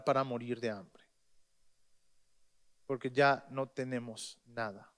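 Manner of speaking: quietly resigned to starving; despairing widow. Retold or imitated. Widow tells the prophet they will starve, softly despairing.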